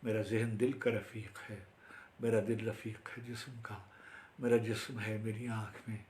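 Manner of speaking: declaim, then bring the verse to rest; formal Urdu verse recital; poetry recitation. Acted. Recites own Urdu poem.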